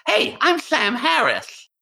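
high lisping voice, slow; lisping dog voice. Pretend. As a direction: talk like a dog with a lisp. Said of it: "you probably have a lisp".

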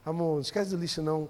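soft, low weary reminder; mildly acted worn-out wife; tired, stressed wife. Tired wife reminds husband about the rubbish, soft weary voice.

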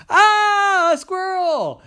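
high, loud shriek; high startled cry; startled scream. Acted. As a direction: scream at intruder. Owner startled by squirrel.

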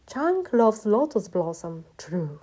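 slow, declaimed read-out of a love slogan; graffiti read aloud. A narrator's reading. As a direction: spell out the big-letter slogan grandly. Narrator reads out big-letter graffiti.

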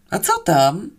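mildly condescending call back; gracious but booming. Acted. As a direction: answer graciously, with some volume. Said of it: "zapytałam łaskawie, acz gromko". (łaskawie, acz dość gromko)

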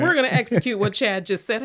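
loud, eager boardroom enthusiasm; eager agreement. Retold or imitated. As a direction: hype up the plan. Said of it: "And they're like".

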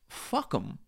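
from the diaphragm. Pretend. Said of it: "from the diaphragm".

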